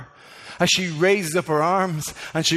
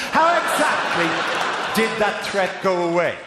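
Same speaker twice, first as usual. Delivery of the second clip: exasperated. Real, not acted. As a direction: shout the plot hole at them. Ranting at the film's plot.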